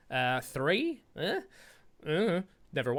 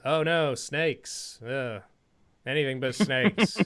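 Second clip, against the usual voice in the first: antagonistic, casual; 2 semitones lower, slower than usual. Pretend. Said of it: "like, antagonistically".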